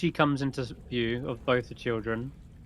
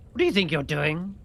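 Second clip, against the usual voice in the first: higher, louder challenge; suspicious hag; 5 semitones higher, 5 dB louder than usual. Acted. Hag challenges Faith over her spell, suspicious challenge. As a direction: confront her sharply as the old hag. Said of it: "gives her a, a glance, like".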